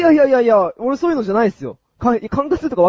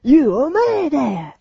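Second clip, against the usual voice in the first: delinquent tough talk; 4 semitones higher than usual. Pretend. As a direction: play the cornered punk, threatening. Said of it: "俺が絡まれてるヤンキーをやります".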